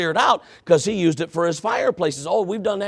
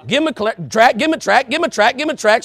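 high, loud, repeating alarm; relentless high-pitched chant; alarm-clock nagging; 8 semitones higher, 7 dB louder than usual. Acted. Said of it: "It's like my alarm clock".

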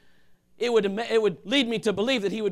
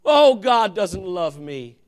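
slow, drawn-out, louder complaint; mock whining; 6 dB louder, much slower than usual. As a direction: whine to God like a sulking believer. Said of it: "It's amazing how".

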